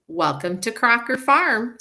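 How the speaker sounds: teacher voicing Ellen the farmer; Ellen's voice. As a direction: greet the visitors as Ellen. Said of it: "change your voice if you wanted Ellen to sound a little different".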